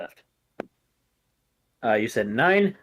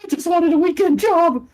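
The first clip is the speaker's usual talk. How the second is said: very high, squeaky, slow freakout; the guard losing it in terror; panicked guard; 3 dB louder, slower than usual. Acted. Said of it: "He's like".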